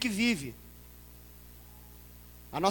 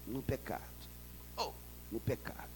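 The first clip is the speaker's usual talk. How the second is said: much softer, low "no pecado"; hushed; 7 semitones lower, 14 dB quieter than usual. Acted. Preacher hushing the crowd over sin. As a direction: let it sink to a near whisper.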